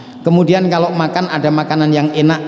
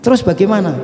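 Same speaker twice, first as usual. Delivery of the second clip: asking how; 6 semitones higher, faster than usual. Retold or imitated.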